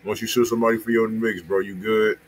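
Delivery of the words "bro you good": usual speaking voice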